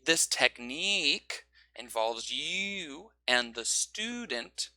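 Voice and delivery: very slow, syllables stretched; slow stretched emphasis; stretched stress. Shown as a demonstration. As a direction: pull the stressed words long like a rubber band. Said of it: "grab a rubber band".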